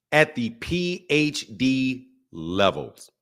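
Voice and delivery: low, slow, grandly drawn-out voice; pompous boast. Pretend. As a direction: savour each letter like a title. Boasting of his reading level.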